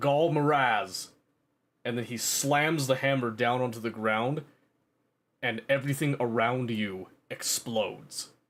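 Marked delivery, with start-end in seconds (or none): 0.0-1.1 loud cry shouted out at full force. Narrator voicing a character in a story, shouting. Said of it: "He shouts out".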